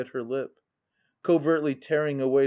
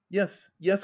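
quick eager cry, higher; 6 semitones higher than usual. A narrator's reading. Narrator voicing Annabella's eager cry. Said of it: "cried she eagerly".

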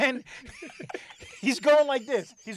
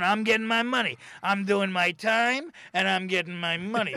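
Gleason impression; 3 semitones lower than usual. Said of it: "Very Gleason like that".

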